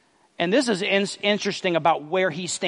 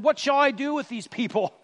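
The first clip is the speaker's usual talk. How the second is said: higher pitched, exasperated plea to God; frustrated Moses; 7 semitones higher than usual. Acted. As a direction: play Moses at his wits' end. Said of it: "He's frustrated".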